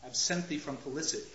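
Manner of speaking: soft, quick and gentle. Shown as a demonstration. Teacher showing the gentle opening of Hamlet's line. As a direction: say it nicely, almost tender. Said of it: "Very soft, very gentle, very nice".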